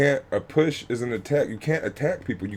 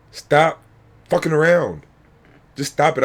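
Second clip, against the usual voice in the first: louder, fed-up "stop"; angry command; 4 semitones higher, 5 dB louder than usual. Real, not acted. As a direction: tell them to cut it out, for real. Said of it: "you can tell I am a bit angry".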